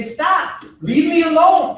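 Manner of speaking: serious stop demo, voice up; firm demo. Shown as a demonstration. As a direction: say it like you mean it. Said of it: "stand straight with your hands up and say".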